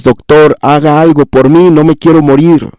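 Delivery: lightly acted plea to a doctor; pleading patient. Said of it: "le clama a los doctores". (súplica actuada de un paciente)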